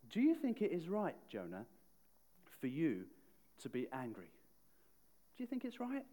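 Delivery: mild, gently questioning God; gentle reply. Retold or imitated. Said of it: "God's loving, gentle reply".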